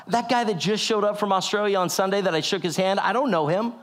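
retold panicked protest at a wild suggestion; incredulous protest. Man objects to calling a pastor he doesn't know, incredulous.

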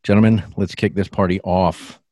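big showman welcome, loud and booming; ringmaster. Acted. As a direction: announce it like a circus ringmaster. Host opens show like a ringmaster.

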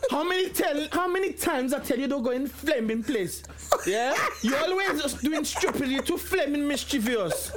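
lightly acted parental telling-off; scolding dad. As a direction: imitate a dad telling off his son. Dad scolds son over the phone.

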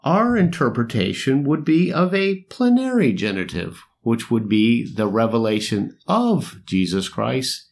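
scholarly voice. Pretend. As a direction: read it like a stuffy professor. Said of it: "you gotta do it in a scholarly voice".

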